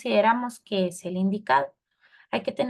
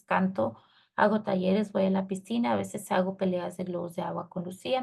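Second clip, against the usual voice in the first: hurried read-through, barely pausing for sense; continuous reading that ignores punctuation; run-on reading. Shown as a demonstration. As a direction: rattle the letter off in one run. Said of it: "Así de corridito".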